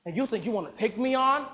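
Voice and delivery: loud ranting producer with shouted peaks; furious tirade. Acted. Producer raging at the actor who corrected him. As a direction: rip into him. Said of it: "Howard ripped into me".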